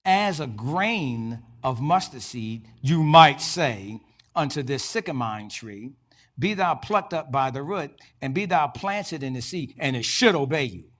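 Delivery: slow, loud, deliberate Jesus quote; drawn out, rising to a loud declaration; voicing Jesus. Preacher quoting Jesus to the congregation, slow and loud. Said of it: "He says".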